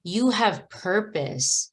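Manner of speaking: slow, firm "You have purpose" with weight on "have"; with conviction. Shown as a demonstration. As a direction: plant each word like a promise to yourself. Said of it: "you say it with passion".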